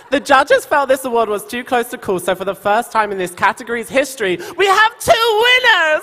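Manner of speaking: hyped giveaway announcement. Acted. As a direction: announce it like a game show. Reading winner's note aloud.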